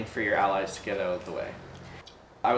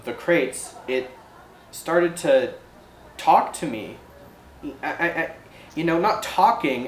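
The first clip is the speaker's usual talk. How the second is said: lightly voiced ferry operator recounting something strange; uneasy ferry operator; 3 semitones higher than usual. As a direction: hesitantly confide an odd experience, lightly in character.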